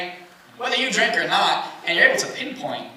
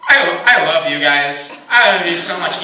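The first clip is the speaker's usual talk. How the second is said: put-on drunk gushing; 3 semitones lower, 4 dB louder than usual. Drunk guy gushing to friends.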